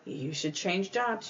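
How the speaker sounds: a gentle, hushed hint to change jobs; very quiet. Pretend. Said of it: "We've been telling you very quietly".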